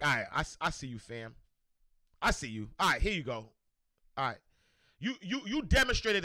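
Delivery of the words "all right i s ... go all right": lower, unhurried voice of God. Retold or imitated. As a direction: speak as God granting it, lower. God answers his effort.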